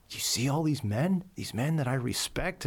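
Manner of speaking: emotional pride. Retold or imitated. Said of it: "I started to get emotional. I'm like".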